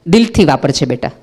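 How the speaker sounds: put-on gentle, loving words to a child; lovingly. Shown as a demonstration. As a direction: hand it over with love. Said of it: "બહુ પ્રેમથી કયો". (પ્રેમથી, હળવેથી)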